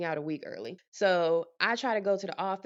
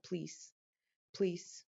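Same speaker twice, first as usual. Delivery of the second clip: desperate plea; 9 dB quieter than usual. Retold or imitated. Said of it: "I probably looked so freaking distressed".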